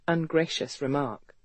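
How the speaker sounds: ordinary delivery, nothing marked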